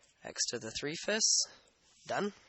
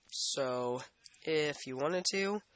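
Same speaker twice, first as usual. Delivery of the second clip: sniffly, stuffed-up nose; runny nose; slower than usual. Real, not acted. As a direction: talk through a runny nose. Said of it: "sorry, my nose is running".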